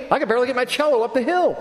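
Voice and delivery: laughing through the words, fast and high. Real, not acted. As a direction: chuckle at yourself while rushing the line. Self-deprecating joke to congregation.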